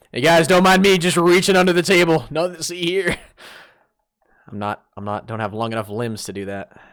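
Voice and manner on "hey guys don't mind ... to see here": mock innocent. Mock casual cover while reaching.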